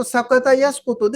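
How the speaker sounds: سقط یسقط with a front k in place of q, as sakata yaskutu; small kaf. Shown as a demonstration. Teacher warning that the letter changes meaning, small kaf. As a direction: swap the qaf of سقط یسقط for a light kaf. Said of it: "چھوٹی کاف سے آ جائے".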